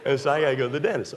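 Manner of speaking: rattled off quickly; fast, offhand delivery; rushed. Shown as a demonstration. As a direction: hurry through it like a throwaway line. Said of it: "all right?".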